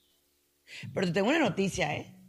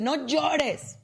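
imitating someone who says "don't cry", pitched higher; higher, insistent "no llores" of a dismissive bystander; people scolding; 4 semitones higher, much slower than usual. Someone hushing a crying person, higher and insistent. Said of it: "que te dice".

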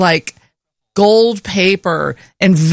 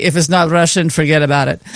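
lightly voiced, lower John Senior; John Senior impression; 4 semitones lower, faster than usual. Wife quoting what John Senior would say, lightly impersonated. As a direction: drop lower for a mild impersonation. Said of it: "Well, he would say".

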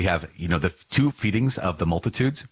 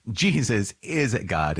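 slow emphasis; 4 semitones higher, much slower than usual. Real, not acted.

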